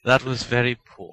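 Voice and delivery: poorly faked British accent; dryly critique in a fake British accent. Judging the host's attempt, fake British accent. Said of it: "my poorly faked British accent".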